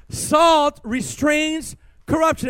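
each word slow and weighty, Salt restrains corruption; slow emphatic. Shown as a demonstration. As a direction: lay down Salt restrains corruption slowly for the crowd. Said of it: "Everybody say this with me".

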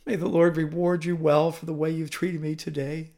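mildly quavering, humbled plea; pathetic quavering voice. Acted. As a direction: plead haltingly, a slight quaver. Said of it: "with a quavering voice".

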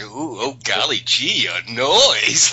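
mockingly fearful, with a drawn-out noise; hammed-up fake fright at nothing much; faux scared. Tough guy mocking a threat about a noise, faux scared. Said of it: "like, faux scared thing".

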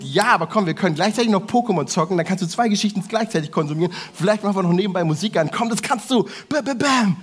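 tempting inner voice speeding up; pushy urge voice. Retold or imitated. Voicing excited pushy urge.

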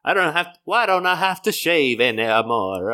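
high lightly voiced old woman; a hint of a cartoon granny; Miyazaki grandma. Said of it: "You sound like a grandma from a Miyazaki film".

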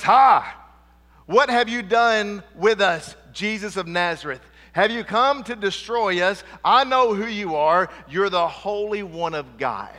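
a man shouting from the back of the synagogue; very loud. Retold or imitated. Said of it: "and he's very loud".

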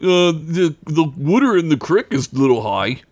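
a hint of a fussy mother fretting about the creek; imitating mom. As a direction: friend mimicking his mom on the phone, lightly voiced. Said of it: "and she's like".

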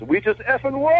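high excited shout of We just effing won; all caps text. Retold or imitated. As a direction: read it like a text in all capitals. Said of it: "all capitals".

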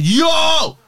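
high, loud drawn-out yell; retold scream. Screaming in the lady's face at the door, retold scream. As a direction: scream it to startle someone. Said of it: "I just screamed in her face".

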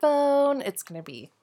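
stuffy voice from a cold. Real, not acted. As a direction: talk through a head cold. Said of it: "if I sound a little funny".

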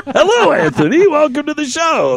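high mock-sweet greeting; sarcastic welcome. Real, not acted. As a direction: greet him with fake sweetness.

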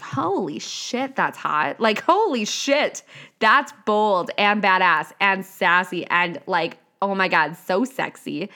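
excited gushing. Retold or imitated. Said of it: "And I'm like".

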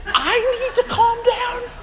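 very high, drawn-out incredulous squeal; comically outraged, voice shooting way up; hammed-up indignant disbelief, stretched out slowly; mock angry outburst. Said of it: "you seem a little angry".

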